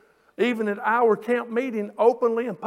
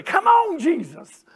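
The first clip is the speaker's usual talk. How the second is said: high loud cry of Come on; shouted amen-corner call; imitated church shout; 8 semitones higher, 7 dB louder, slower than usual. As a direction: mimic a lady hollering from the pew. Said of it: "she'd shout you down".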